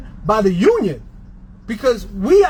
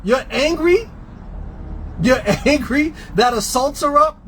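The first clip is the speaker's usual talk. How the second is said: incredulous. Real, not acted. Incredulous retort to critics.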